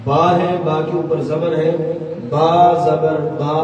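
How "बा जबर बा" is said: बा with a short open a, mouth straight and open; Quran recitation demo. Shown as a demonstration. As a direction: say बा short, no jerk and no stretch. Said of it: "बिल्कुल सीधा मेरा मुंह खुला हुआ है". (सीधा खुला मुंह, छोटा बा)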